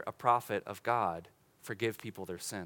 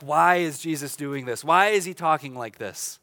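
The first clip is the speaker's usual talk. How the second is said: louder, slow indignant objection; indignant scribes; 6 dB louder, slower than usual. Retold or imitated. Preacher voicing offended scribes, indignant and louder. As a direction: scribes protesting, louder and slowing to outrage. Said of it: "They say things like".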